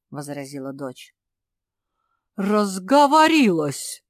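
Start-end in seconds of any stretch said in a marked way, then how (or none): 2.4-4.0 sharp, loud angry retort; angry outburst. A narrator's reading. Father scolding his daughter, angry loud outburst. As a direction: snap back at the daughter, louder. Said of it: "вмиг разозлился родитель".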